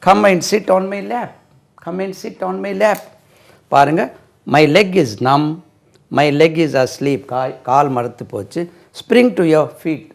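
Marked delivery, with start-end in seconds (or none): 0.1-3.0 drawn out, word by word; very slow dictation. Shown as a demonstration. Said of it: "slow model sentence for children". 6.2-7.2 each word spaced out, very slowly; slow classroom dictation. Shown as a demonstration. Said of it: "slow model sentence". 9.0-10.1 each word spaced out, very slowly; slow classroom dictation. Shown as a demonstration. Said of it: "slow model sentence".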